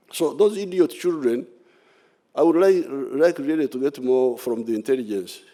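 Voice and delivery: high, scornful contempt. Real, not acted. Scorn at the rebel boys.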